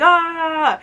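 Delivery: imitating someone hollering out. Reviewer imitates a character, brief mock holler. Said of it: "holler out".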